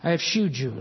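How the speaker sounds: "shewed" said like shoed; King James pronunciation. Shown as a demonstration. Preacher pointing out the old word shewed, said shoo-d. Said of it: "that's a King James, very fancy for showing".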